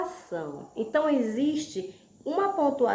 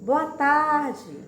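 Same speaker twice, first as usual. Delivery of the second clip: greeting exclamation; 3 semitones higher, much slower than usual. Shown as a demonstration. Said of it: "quando a gente diz".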